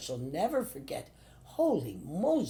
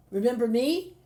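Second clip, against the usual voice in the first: retold teasing; 7 semitones higher, 6 dB louder than usual. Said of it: "I said".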